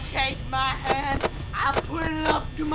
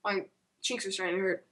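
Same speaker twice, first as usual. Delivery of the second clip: weird voice; 5 semitones lower, 9 dB quieter, faster than usual. Real, not acted. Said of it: "this voice is, like, getting real weird".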